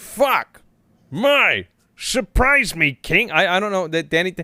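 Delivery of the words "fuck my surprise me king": high, very slow, drawn-out goblin voice. Trying out how Danny DeVito sounds for a chat voice. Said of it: "what does Danny DeVito sound like?".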